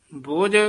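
ਬੋਝ with a gentle, unstrained ending; soft ਬੋਝ. Shown as a demonstration. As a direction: say ਬੋਝ lightly. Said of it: "ਬੋਝ ਪਦ ਪੋਲਾ ਹੀ ਉਚਾਰਨ ਕਰਨਾ ਹੈ".

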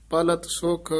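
ਪਲਤ ਸੁਖ said softly, with a short halt after ਸੁਖ; brief pause after ਸੁਖ. Shown as a demonstration. Teacher marking the pause after ਪਲਤ ਸੁਖ, softly. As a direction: clip the phrase at ਸੁਖ and hold a beat. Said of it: "ਇੱਥੇ ਵੀ ਠਮਕ".

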